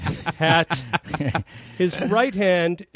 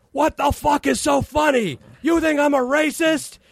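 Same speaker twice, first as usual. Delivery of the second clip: high, pitched-up angry demand; mock furious outburst; 11 semitones higher than usual. Chevy yelling at laughing Donald, high mock rage. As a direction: squeal it like an offended star.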